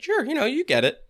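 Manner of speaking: high, offhand actor voice; casual actor impression. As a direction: toss it off like a laid-back actor. Mimicking Jeff Goldblum's line delivery.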